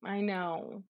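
lightly voiced three-year-old; child's voice. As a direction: read it as the small older sibling, gently. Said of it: "in the older sibling's voice".

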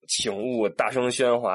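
slowly spelled-out notice wording; slow sign reading. Retold or imitated. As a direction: read it like a posted sign, word by word. (一字一顿地念告示)

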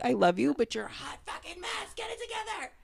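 mock partner voice. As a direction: play the partner lovingly scolding. Quoting her partner's mixed message.

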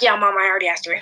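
hushed fib; whispering. Retold or imitated. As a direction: whisper the lie quickly. Whispered lie to mom.

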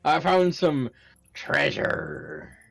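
lightly voiced pirate; a hint of a pirate accent. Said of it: "I do say it in a pirate voice".

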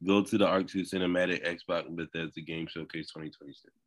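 rattled off without a breath; all in one breath. Real, not acted. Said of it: "I said all that in one breath".

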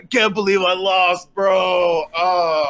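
hammed-up sore-loser lament; anguished loser. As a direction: moan it in disbelief. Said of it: "he's, like, punching the ground".

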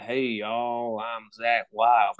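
slow, drawn-out mock Southern twang; overdone Southern accent. Co-host mimicking the singer's put-on country style, overdone Southern accent. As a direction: put on a hillbilly Southern drawl. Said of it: "overdoing that Southern accent".

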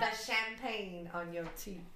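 slow Southern drawl; unhurried Southern accent. Acted. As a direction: stretch it out with a Southern twang. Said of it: "why am I saying this in a southern accent".

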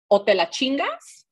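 retold yell. Mother ordering her daughter from the porch, retold yell. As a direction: imitate mom yelling, without full force. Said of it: "she looks at me and she yells".

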